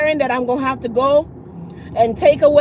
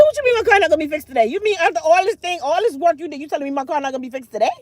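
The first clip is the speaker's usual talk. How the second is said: indignant disbelief; 4 semitones higher, faster than usual. Retold or imitated. Indignant retold reply to mechanic.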